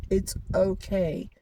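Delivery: slow, gentle reassurance to yourself; calm yourself down slowly; slow soothing words to yourself; soothing self-talk. Retold or imitated. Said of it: "I just kept telling myself".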